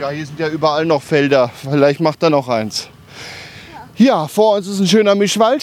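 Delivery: panting while walking uphill; puffing from the climb; out of breath. Real, not acted. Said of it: "Der Gregor schnauft".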